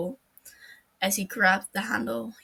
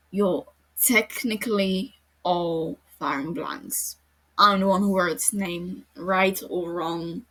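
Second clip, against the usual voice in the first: slow; 5 dB louder than usual. Acted. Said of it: "he said slowly".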